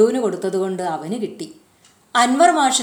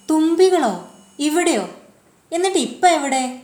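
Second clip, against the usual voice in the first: surprised; 7 semitones higher than usual. A narrator's reading. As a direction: pop the questions in wonder. Child surprised by dragonflies. (അത്ഭുതത്തോടെ ഉയർന്ന ചോദ്യങ്ങൾ)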